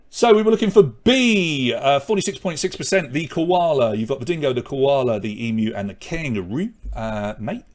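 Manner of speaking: hammed-up Aussie accent, playing it for laughs; Australian accent. Quiz host reads the Australian animals answer in mock Australian accent. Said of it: "there's my Australian accent".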